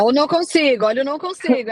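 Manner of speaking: "consigo" hit firmly, falling at the end; stress on consigo. Shown as a demonstration. Mentor correcting the student's word choice, with firm stress on "consigo". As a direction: lean on the word "consigo" as the right word. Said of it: "é a palavra".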